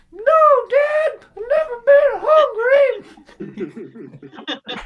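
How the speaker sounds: high, loud mocking whine; mock bratty son, loud and high; sarcastic teen retort. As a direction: whine it back like a bratty kid. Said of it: "I'm like".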